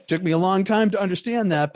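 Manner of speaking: talking through a laugh, pitched high; real laughter breaking into the words. Real, not acted. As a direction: laugh while admitting it. Laughing at own admission.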